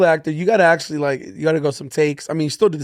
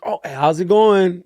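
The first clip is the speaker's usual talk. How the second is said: polite phone voice; 3 semitones higher, 3 dB louder, slower than usual. Retold or imitated. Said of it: "I usually do that".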